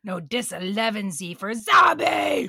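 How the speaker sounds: loud correcting zombie yell; zombie shout. Acted. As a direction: yell it right at them.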